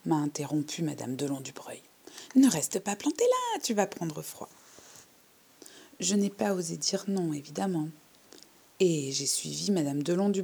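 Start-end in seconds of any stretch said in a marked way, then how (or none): 2.3-4.5 rattle-voiced old lady. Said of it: "de sa voix de crécelle".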